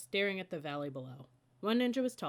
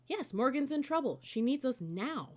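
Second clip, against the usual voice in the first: urgent; 8 semitones higher, 4 dB louder than usual. Acted. Annie insisting urgently.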